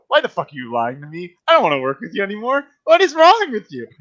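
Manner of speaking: building from a snap to a high yelling rant; hammed-up fury at a lying ally; mock angry outburst. Eric yelling at Jack over her lies, mock furious. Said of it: "a very bad actress".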